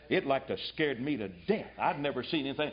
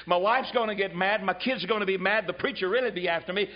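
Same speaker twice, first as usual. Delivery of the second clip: mock whining; 4 semitones higher than usual. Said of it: "this nonchalant, indifferent".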